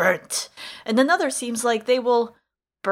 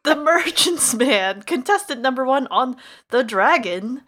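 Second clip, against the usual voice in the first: game show announcer; 2 semitones higher, 4 dB louder than usual. Acted. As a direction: announce the contestant like a TV host. Game show host introduction.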